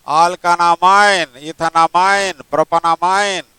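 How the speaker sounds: drawn out very slowly; slow dictation. Shown as a demonstration. Teacher dictating a name to the student, very slow. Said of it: "teacher dictating names to student".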